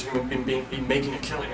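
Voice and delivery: tripping and repeating on "be"; stuttering. Real, not acted. Tired presenter tripping over his module wrap-up, stuttering. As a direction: stumble over the word, then push on. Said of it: "I don't know why I'm stuttering".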